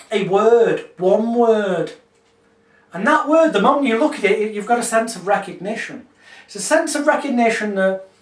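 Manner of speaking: calm, measured hypnotist voice; hypnotic script. Shown as a demonstration. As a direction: guide the dream gently. Continues blackboard script.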